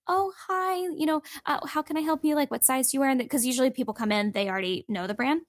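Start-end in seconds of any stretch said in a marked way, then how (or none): 0.1-3.1 high-pitched retail helper voice, easing down; a bit of put-on customer-service cheer; chirpy shop greeting. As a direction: lightly re-enact greeting a customer. Acts out greeting the celebrity customer.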